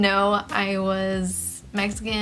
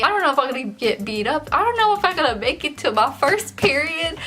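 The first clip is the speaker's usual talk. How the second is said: mock panic; 6 semitones higher, 4 dB louder than usual. Reliving panic, rising voice.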